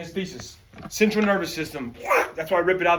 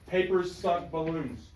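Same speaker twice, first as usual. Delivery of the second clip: slow, deliberate; 6 dB quieter, slower than usual. Shown as a demonstration. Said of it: "I want you to write that down".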